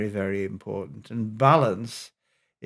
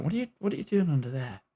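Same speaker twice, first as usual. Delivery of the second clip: quick, higher retold scolding; mild mock angry shout; 4 semitones higher, much faster than usual. Father finds youngest under the bed, quick mock angry tone. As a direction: imitate an angry father without raising the volume. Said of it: "he shouts in an angry tone".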